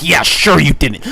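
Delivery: loud sarcastic "sure you didn't" with a falling tune. Retold or imitated. Friend mocking narrator's excuse, loud and sarcastic. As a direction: throw "sure" back at him, scornful.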